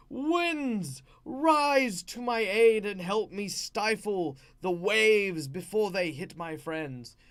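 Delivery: commanding, resonating yell to the elements; slow, grand invocation, opening high and loud, then easing; Storm. Retold or imitated. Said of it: "just yell out, um, like, commanding the elements".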